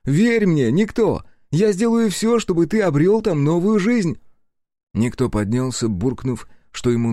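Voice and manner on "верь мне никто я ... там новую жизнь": loud, high, impassioned promise; fervent encouragement. Acted. Аяшики swears to help his friend, fervent. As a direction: urge a doubting friend to believe.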